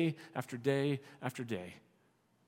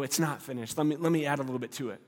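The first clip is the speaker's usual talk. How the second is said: mock eager meddler; 3 semitones lower, faster than usual. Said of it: "and you go".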